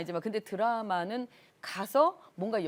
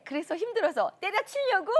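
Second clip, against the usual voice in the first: high, playful teasing; teasing question; 11 semitones higher than usual. Retold or imitated. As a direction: tease the junior lightly. Senior teasing junior.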